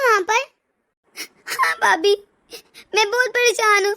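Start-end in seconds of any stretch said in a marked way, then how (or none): 1.5-3.9 crying. Acted. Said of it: "जो मेरी बच्ची इतना रो रही थी।".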